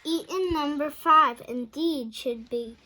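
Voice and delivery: loud indignant shout. A narrator's reading. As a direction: shout it back, offended. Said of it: "shouted Big Bad Wolf".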